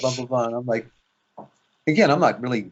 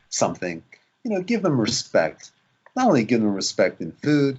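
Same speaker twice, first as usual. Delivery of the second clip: ordinary delivery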